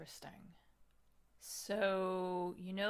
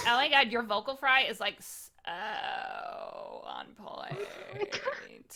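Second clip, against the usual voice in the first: put-on valley girl voice; 4 semitones higher, 5 dB louder, slower than usual. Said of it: "I'm like".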